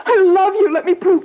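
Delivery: tearful pleading. Acted. Desperate wife pleads for her life.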